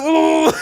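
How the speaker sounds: high, loud "ooh"; startled "ooh". Retold or imitated. Storyteller recreating his startled reaction, high mock hoot. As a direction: let out a high hooting "ooh".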